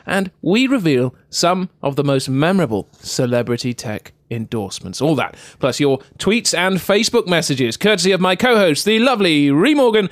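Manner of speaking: punchy podcast announcer; big scripted host introduction; show intro. Acted. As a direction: announce the line-up with showy emphasis, building to the guest's name.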